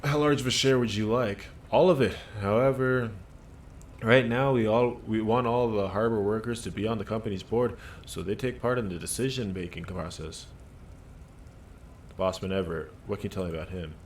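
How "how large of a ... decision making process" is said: a dockworker puffed up and defensive; gruff union worker. Acted. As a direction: bark it out like a worker standing his ground. Worker character answers.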